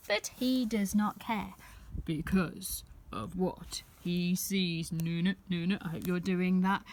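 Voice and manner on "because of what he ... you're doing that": suspense whisper. A narrator's reading. Reading to a child, a suspenseful whisper. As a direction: lean in and whisper it.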